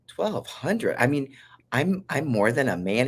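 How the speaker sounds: patient hearing her test result, high and astonished; shocked disbelief. Retold or imitated. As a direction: react like you can't believe the number.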